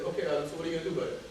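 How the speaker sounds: quick, low no-nonsense reply; brisk retort. Retold or imitated. Speaker to laid-off friend who is complaining, brisk retort. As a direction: rattle it off, unmoved by the complaint.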